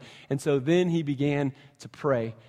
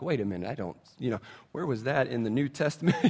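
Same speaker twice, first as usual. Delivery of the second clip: softer, laughing imitation of a doubter; laughing mock question; 4 semitones lower, 4 dB quieter, faster than usual. Pastor mocking a modern reader's objection, laughing. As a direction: ask it through a laugh.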